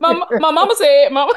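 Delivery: Waterboy voice. Retold or imitated. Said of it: "he sound like Adam Sandler in Waterboy".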